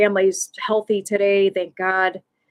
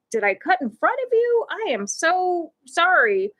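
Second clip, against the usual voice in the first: high-pitched, gushing sorry; retold profuse apology; 8 semitones higher than usual. Speaker apologizes to the woman she cut in front of, mortified.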